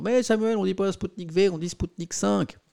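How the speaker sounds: a hint of a smug viewer correcting him; mock know-it-all viewer. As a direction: lightly mimic a pedantic chatter. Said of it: "évitez de me dire dans le chat".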